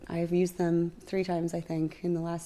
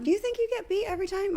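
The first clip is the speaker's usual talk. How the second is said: incredulous; 12 semitones higher, faster than usual. Real, not acted. Incredulous question.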